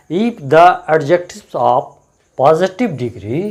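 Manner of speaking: slow, deliberate rule dictation. Shown as a demonstration. Teacher dictating an English grammar rule, slow and deliberate. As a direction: spell the rule out word by word for the class.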